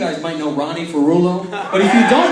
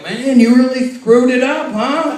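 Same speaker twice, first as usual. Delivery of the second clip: slow, louder taunting biker; gruff biker; 6 semitones higher, 5 dB louder, slower than usual. Retold or imitated. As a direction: rub it in slowly. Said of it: "He was like".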